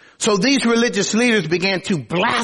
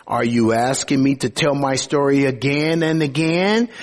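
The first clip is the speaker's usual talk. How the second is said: sarcastic. Acted. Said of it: "he says sarcastically".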